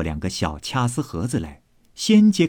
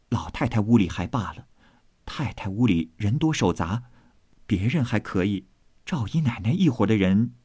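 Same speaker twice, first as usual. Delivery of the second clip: slightly lowered, understated maid voice; lightly voiced sensible maid; 4 dB quieter than usual. Maid urging the vase be collected, subdued and practical. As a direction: advise quietly and practically.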